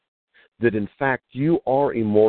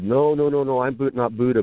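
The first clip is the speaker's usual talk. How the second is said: higher-pitched string of denials, settling down; retold protest; 4 semitones higher than usual. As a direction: imitate a flustered monk correcting a mistake. Monk's protest acted out again.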